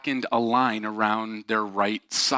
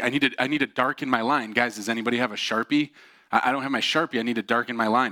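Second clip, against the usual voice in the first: mock agitated plea, pitched up a bit; raised voice; 3 semitones higher, faster than usual. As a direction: imitate someone getting more insistent. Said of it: "he increases his voice".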